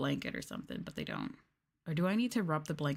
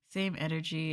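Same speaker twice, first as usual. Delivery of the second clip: whisper. Real, not acted. Whispered joke.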